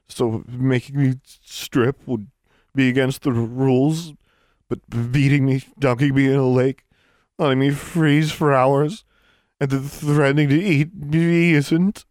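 a freezing prisoner throwing it back at the Sphinx; indignant girl. Acted. Alexandra retorts indignantly.

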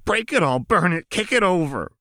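high and wild with glee; manic Jinx. A narrator's reading. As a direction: savor each destructive idea. Jinx's destructive outburst.

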